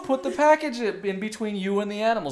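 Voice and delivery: loud, high-pitched mock panic; retold frantic protest. Retelling the bulldog attack to friends, loud frantic protest. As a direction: yell it high, as if mid-struggle. Justifying himself in frantic dog story.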